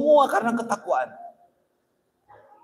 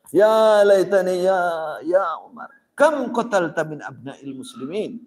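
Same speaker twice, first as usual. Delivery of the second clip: grieving lament; 4 dB louder than usual. Retold or imitated. Umar laments his own guilt.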